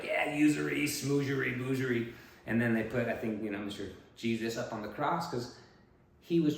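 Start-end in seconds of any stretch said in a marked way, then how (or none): 0.0-2.1 higher, louder scoffing singsong; mock dismissive. Imagined bankers waving off the usury rule, mock dismissive. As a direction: brush it off with silly rhymes.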